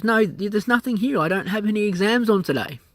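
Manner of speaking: a hint of a dismissive clerk; office lady. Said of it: "And she goes".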